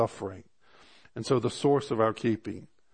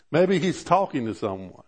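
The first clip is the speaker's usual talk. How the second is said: mocking taunt; 4 semitones higher, 4 dB louder than usual. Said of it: "He began to mock 'em".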